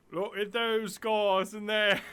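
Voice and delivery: attempted Australian accent. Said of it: "I can't do Australian".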